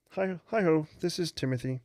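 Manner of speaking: Tim impression. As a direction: pop the voice way up to play Tim. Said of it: "I'll do my best Tim impersonation".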